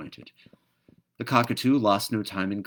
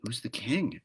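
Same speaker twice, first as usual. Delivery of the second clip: breathless; 4 semitones higher than usual. Acted. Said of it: "asked all the creatures breathlessly".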